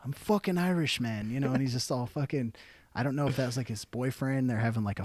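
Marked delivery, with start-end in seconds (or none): 0.0-1.3 higher-pitched, insistent mock drunk; imitated drunk insistence. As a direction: insist like a drunk who was misunderstood. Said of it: "he's so fucking drunk".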